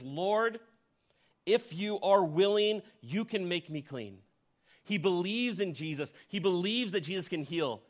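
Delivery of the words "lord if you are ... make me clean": higher and louder, slow begging; pleading. Retold or imitated. Preacher voicing the leper begging Jesus, pleading. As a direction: plead with Lord, voice lifted. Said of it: "He says".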